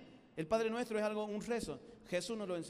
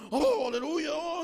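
loud, high, grandiose exclamation; mock divine reply; 7 semitones higher, 7 dB louder, slower than usual. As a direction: ham up a booming heavenly voice.

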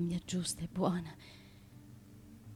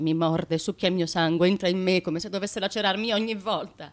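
impassioned outcry; 8 dB louder than usual. Acted. Wife recounts husband's violent passion.

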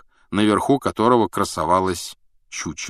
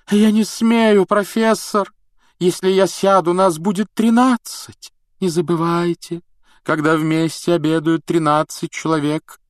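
much higher, loud alarmed outcry; sudden cry; 9 semitones higher, 4 dB louder than usual. Acted. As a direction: cry out in superstitious dread. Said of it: "вдруг вскрикнула".

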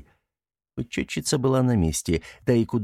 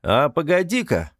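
calling out; 7 semitones higher than usual. A narrator's reading. Часовые окликнули кошку.

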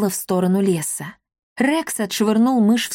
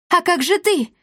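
much higher panicked shout; panicked cry; 10 semitones higher than usual. A narrator's reading. Rex fears for the king, panicked cry. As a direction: cry out in fear for him. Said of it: "в панике крикнул тот".

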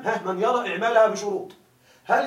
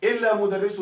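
slow, careful model sentence read for the class; teacher slowly reading the grammar example aloud; slower than usual. Shown as a demonstration. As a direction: spell out the example word by word, slowly. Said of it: "فيقولون".

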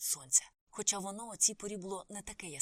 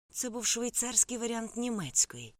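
slow, higher furious words through teeth; 5 semitones higher, 5 dB louder, slower than usual. A narrator's reading. Karla to the narrator, furious through teeth. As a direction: grind it out in fury. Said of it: "люто проциділа вона крізь зуби".

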